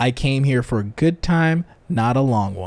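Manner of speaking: mock matter-of-fact, bone-dry, dead serious delivery. Quoting a student's reply to the speaker's question, retelling a deadpan reply. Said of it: "looks at me deadpan and says".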